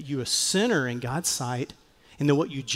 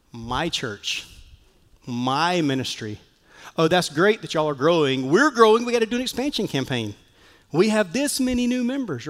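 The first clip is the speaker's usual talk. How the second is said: bragging pastor. Retold or imitated. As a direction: brag like a pastor showing off growth. Pastors bragging about growth.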